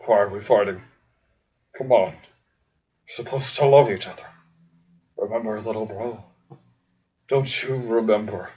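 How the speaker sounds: lightly voiced desperate plea; pleading brother. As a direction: plead with little bro to stop fighting. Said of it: "But Dirk pleaded".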